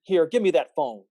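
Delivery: furious scolding into the phone; angry phone rant. Acted. George berates teacher on phone.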